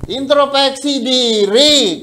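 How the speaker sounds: "Introspeksi diri" drawn out very slowly, syllable by syllable; slow repeat. Acted. Preacher repeating the key to the congregation, very slow and deliberate. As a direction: lean on each syllable of "Introspeksi diri", unhurried. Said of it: "Nggak usah panjang-panjang".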